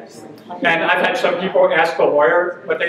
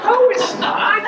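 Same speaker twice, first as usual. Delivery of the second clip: squeaky laughing "Oh, it's not"; laughing high aside; slower than usual. Retold or imitated.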